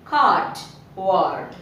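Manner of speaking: కార్డ్ and వర్డ్ with a long vowel. Shown as a demonstration. Teacher contrasts short and long vowels, long vowel. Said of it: "ఇక్కడ long ఓవెల్".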